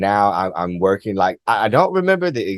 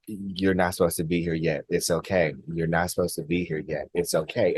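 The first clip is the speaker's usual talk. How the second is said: softer, hushed reassurance; gentle telepathic voice; 2 semitones lower, 7 dB quieter than usual. Retold or imitated. Being repeating its farewell to the visitor, softly reassuring. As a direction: murmur it kindly, like a send-off.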